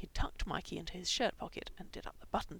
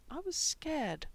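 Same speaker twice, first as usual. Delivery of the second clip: desperate; 8 semitones higher, much slower than usual. Acted. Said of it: "Mikey said quickly, desperately".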